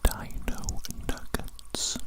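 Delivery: slow, very quiet whisper into the ear; slow close ear whisper. Acted. Tester whispering a test phrase into the ear, slow close whisper. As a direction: draw the words out slowly right at the ear. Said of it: "whisper some words into your ears very closely".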